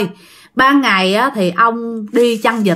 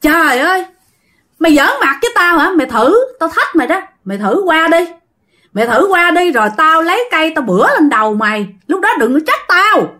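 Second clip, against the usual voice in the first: higher-pitched mocking retold threat; scoffing; 5 semitones higher, faster than usual. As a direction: taunt him as if daring him. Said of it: "Thì ổng cười lên".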